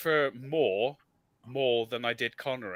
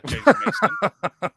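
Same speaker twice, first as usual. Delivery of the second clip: slow, louder, higher mock James Mason; imitating James Mason; 6 semitones higher, 6 dB louder, much slower than usual. Teasing a friend with an old movie-star voice. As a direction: drawl the name like an old film star. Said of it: "designed to be nineteen forties James Mason".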